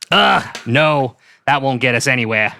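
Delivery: put-on dismissive detective, Boston accent. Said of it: "my killer Boston accent".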